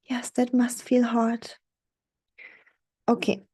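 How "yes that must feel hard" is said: gentle empathy. Shown as a demonstration. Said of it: "be like".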